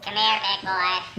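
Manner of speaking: seductive come-on. Acted. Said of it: "after you call me that".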